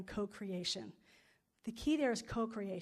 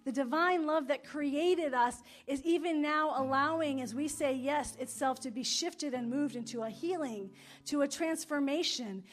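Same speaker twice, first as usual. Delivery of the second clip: affirmative prayer; 3 dB louder than usual. Acted. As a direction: pray it out, rising with conviction.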